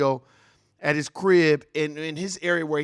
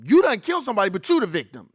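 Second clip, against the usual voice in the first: loud, higher outburst; outraged; 4 semitones higher, 5 dB louder than usual. Real, not acted. Streamer ranting at the killers, loud outrage. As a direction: throw the accusation at them.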